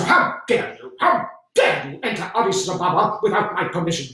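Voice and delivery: hissed outrage, then a stern demand; a general barely containing fury; indignant. Acted. General confronts him angrily.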